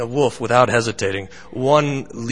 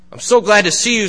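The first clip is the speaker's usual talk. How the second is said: mock-friendly wolf, higher and louder; wolf greets the lost lamb, gloating; hungry wolf; 8 semitones higher, 6 dB louder, faster than usual. Wolf to lamb in a story, hammed-up hungry glee. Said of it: "says the wolf".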